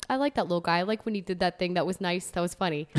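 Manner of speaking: understated dad stating each liking plainly; flat, literal dad. Acted. Typical Long Island dad approving of a thing, flat and literal. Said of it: "flat and, like, literal".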